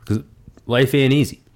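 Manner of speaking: words pushed out on a burp. Real, not acted. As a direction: talk through a burp. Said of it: "Excuse me. Burp City, Burp Crusher".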